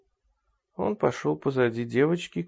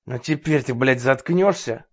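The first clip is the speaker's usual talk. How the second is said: vicious hiss; 3 dB louder than usual. Acted. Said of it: "злобно прошипел Рой".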